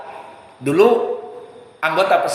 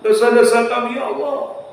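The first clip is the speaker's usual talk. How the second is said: mild mock prayer; 4 semitones higher than usual. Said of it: "Adapun hanya sekedar".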